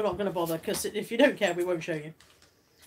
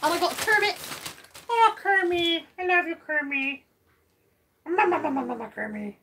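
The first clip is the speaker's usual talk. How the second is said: put-on Kermit the Frog with a German accent; hammed-up German accent for the Kermit toy; German-ish Kermit voice; 5 semitones higher than usual. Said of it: "Why are you doing a German accent?".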